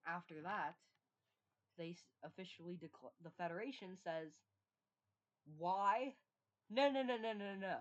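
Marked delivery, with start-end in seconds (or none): 5.6-7.8 shouted, rising no no no; loud scolding. Acted. The Federation scolding the rebel state with loud, rising noes. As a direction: scold them loudly, cutting each no short.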